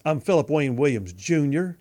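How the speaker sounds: "Junior" set apart with heavy emphasis and a rising end; retold emphatic answer, punching "Junior"; emphatic, stress on Junior. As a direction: lean proudly on "Junior," as a kid declaring his name. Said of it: "I'd say emphatically as a little kid".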